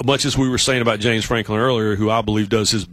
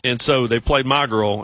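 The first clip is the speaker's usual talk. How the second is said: ordinary delivery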